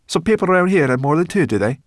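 high, loud, quick disbelief; incredulous. Acted. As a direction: brownie aghast at the idea. Brownie astonished about number of arms.

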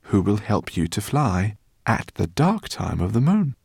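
lively, pleased professor making introductions; lightly voiced, delighted old friend presenting his party; a hint of a gracious host; courteous professor. Professor greets dragon, introduces companions.

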